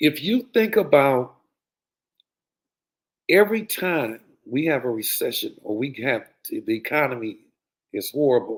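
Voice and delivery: very slow, deliberate, drawn out word by word. Speaker telling listeners to take notes, saying it very slowly. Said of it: "I'm going to try to say it as slow as I can".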